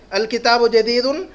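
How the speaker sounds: الکتاب جدیدن read slowly, syllable by syllable; the teacher spells out the sounds for the class by voice; slow Arabic model reading. Shown as a demonstration. Teacher reads new Arabic phrase to class, slowly and clearly. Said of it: "لفظ ہے نیچے".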